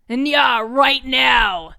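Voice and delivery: put-on slow, loud, stretched cat-girl nya; cutesy nya speak. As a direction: purr it out like a playful kitten. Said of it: "She's so good at it".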